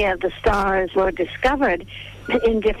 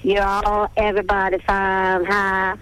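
Texas accent. Shown as a demonstration. Actress showing the Texas accent she had to lose, lightly Texan. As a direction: slip briefly back into the Texas accent of her childhood. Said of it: "get rid of the Texas accent".

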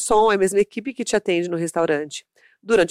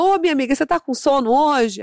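put-on higher, friendly talking-to-a-child voice; segurança brincalhão imitado; 6 semitones higher than usual. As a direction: lightly imitate a friendly greeting to a kid. Friendly guard teasing sleepy child. (fala carinhosa e mais aguda com criança)

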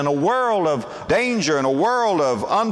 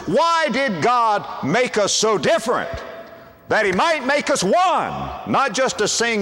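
preaching climax; 5 semitones higher than usual. Real, not acted. Preacher's climactic question to congregation.

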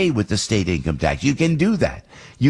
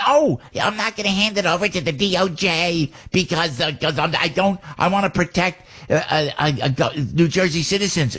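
higher-pitched whiny complaint; mock whining; 6 semitones higher than usual. Host mocking a governor who refuses to act, mock whining. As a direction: mimic an official's whining excuses. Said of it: "whining and complaining and going and saying".

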